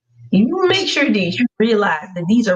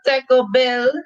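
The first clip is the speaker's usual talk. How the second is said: lightly hammed Spanglish impression, slightly higher; mock a TV character's fake Spanish; Ghost; 4 semitones higher than usual. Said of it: "He always sounded like Ghost".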